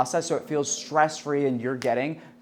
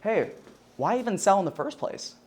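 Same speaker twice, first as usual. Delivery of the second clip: higher, rising, excited question; upswing; 6 semitones higher than usual. Shown as a demonstration. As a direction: lift it up like a curious question. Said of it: "Something positive, something exciting".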